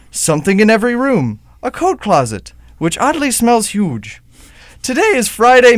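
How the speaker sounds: theatrical host narration, rising to each reveal; show-opening announcer. Acted. Host introduces a special episode to listeners, mock-dramatic announcer. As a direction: set the mysterious scene with mock drama.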